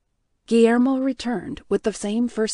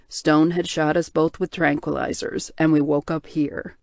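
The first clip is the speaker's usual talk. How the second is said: low, heavy voice of a guilt-ridden man; tortured bear shifter; 5 semitones lower, 4 dB louder than usual. Acted. Hale tells his capture.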